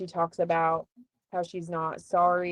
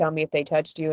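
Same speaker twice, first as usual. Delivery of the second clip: ordinary delivery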